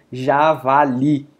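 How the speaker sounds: javali with LI punched; stress on final syllable. Shown as a demonstration. Teacher giving another example, javali stressed on "li". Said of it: "é forte aqui".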